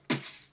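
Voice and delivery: imitated powder puff. Imitates powder bursting into air.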